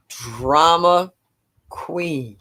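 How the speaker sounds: mock-exasperated, savoring the label; drawn-out exasperation. Real, not acted. Great-grandmother on the hollering toddler, exasperated. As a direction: stretch each word out, rising then falling. Exasperated at tantrum-throwing child.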